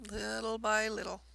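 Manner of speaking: "little by little" with the opening "little" stretched for emphasis. Real, not acted. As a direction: lean on the first "little", drawing it out. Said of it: "Emphasis on the little".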